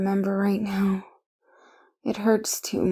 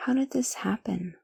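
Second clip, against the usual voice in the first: soft whisper; 6 dB quieter than usual. Acted. Quiet wonder.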